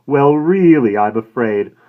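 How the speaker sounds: a lightly voiced smooth shopkeeper; polite, professional inquiry; florist's voice. A narrator's reading. Florist asking the woman about flowers, smooth.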